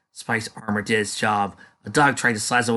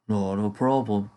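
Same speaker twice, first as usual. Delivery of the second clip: scolding. Acted. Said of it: "scolded the large Drake".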